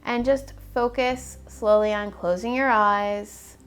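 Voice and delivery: measured, even-toned body scan guidance with long pauses; guided meditation. Acted. Guide talking clients through a body scan, calm meditation voice. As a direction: lead them calmly and unhurriedly through each step.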